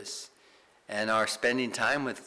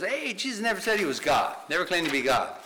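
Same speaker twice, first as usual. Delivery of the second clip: higher-pitched mock objection; mock challenger; 7 semitones higher, 4 dB louder than usual. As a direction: lightly act out a doubter piping up. Voicing doubters who challenge Jesus' deity.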